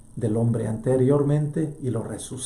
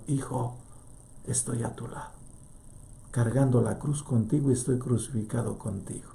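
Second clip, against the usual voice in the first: much softer, hushed; silent answer; 7 dB quieter than usual. Acted. The Father answers his Son, hushed and soft. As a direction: speak it almost in silence. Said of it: "le dice en silencio".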